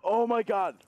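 high pained groan; mouth burning from spicy food. Real, not acted. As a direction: moan through the spicy burn. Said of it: "This is so hot".

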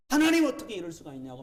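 fast, high-pitched mock outcry; hurried, half-voiced cry to God; retold crying out in prayer. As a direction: imitate shouting a protest to God. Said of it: "소리짖어 막 기도했어요".

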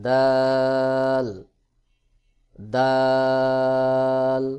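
very slow, stretched দাল on one held note; letter demo. Shown as a demonstration. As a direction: hold দাল long, tongue tip at the upper teeth roots. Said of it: "জিহ্বার আগা সামনের উপরের". (জিহ্বার আগা দাঁতের গোড়ায়, টেনে দাল)

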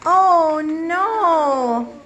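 slow, swooping storybook dismay; theatrical dismay. Acted. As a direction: prompt young actors with exaggerated dismay. Dismay acted in class play.

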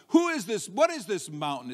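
indignant challenge, starting high and dropping; defiant. Acted. Preacher voicing the challenge to the mountain, defiant. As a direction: throw the question down like a dare. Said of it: "same kind of a spirit".

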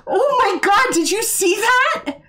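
high, loud shocked voice; adrenaline rush. Real, not acted. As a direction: still reeling from the fright, slow. Still shocked after jump scare.

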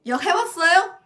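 a teacher loudly asking the students 욕해봤어요; loud question. Shown as a demonstration. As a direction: throw 욕해봤어요 out to the class. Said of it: "혹시 여러분 욕해봤어요?".

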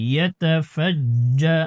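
ইয়াতাফাজ্জা with the jim held hard and doubled; firm doubled jim. Shown as a demonstration. Teacher showing the student the hard doubled jim. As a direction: grip the জ্জ firmly. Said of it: "জিমকে একটু শক্ত করে ধরতে হবে".

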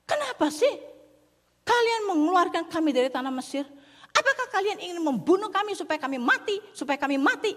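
grumbling complaint. Acted. Israelites grumbling at Moses about leaving Egypt, whiny and high. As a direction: whine at Moses like an ungrateful crowd. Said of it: "Ngomel bilang".

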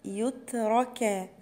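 يترك slowly with the taa held still; stopped taa. Shown as a demonstration. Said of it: "حرف التاء هنا ساكن". (تاء ساكنة في يترك)

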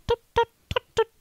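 high tut tut; prim mock tutting; hammed-up fussy dad with umbrella. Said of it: "He's like".

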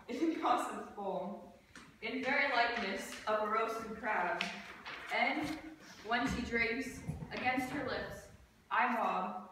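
measured, deliberate verse delivery; stage recitation. Acted. Student performing Puck's speech for class, measured recitation. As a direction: recite line by line, with short pauses.

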